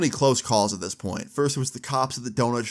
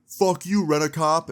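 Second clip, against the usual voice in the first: higher-pitched mock defiance; defiant retold insult; 5 semitones higher than usual. Friend insulting a security guard while leaving, defiantly. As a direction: toss the insult back over your shoulder.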